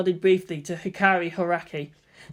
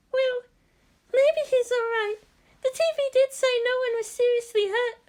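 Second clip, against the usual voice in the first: Hikari uncertain. Acted. Hikari reassuring herself about Toji, high and hesitant. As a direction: talk yourself into hope.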